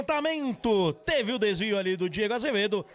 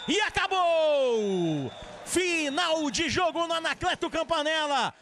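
final whistle call; 4 semitones higher than usual. Real, not acted.

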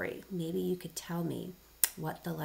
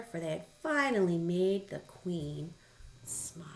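picture-book narration with pauses; story reading to children. Acted. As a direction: read the happy ending to little listeners.

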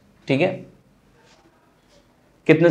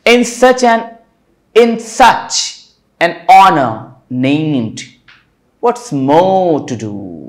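poem recitation; much slower than usual. Shown as a demonstration. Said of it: "ठीक है".

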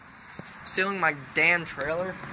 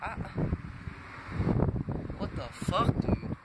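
whispered; 5 dB quieter than usual. Real, not acted. Stunned watching the footage.

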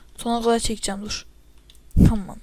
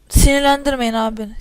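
louder warning; 7 dB louder than usual. Real, not acted. Gamer warns opponents, getting annoyed.

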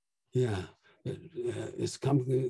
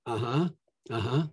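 casual reply; 2 semitones lower, 5 dB quieter than usual. Retold or imitated. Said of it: "the most common response I hear is".

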